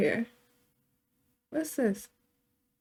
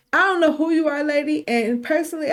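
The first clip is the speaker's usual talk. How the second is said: Carter confronting mom; 4 semitones higher, 3 dB louder, faster than usual. Acted. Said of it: "He's like".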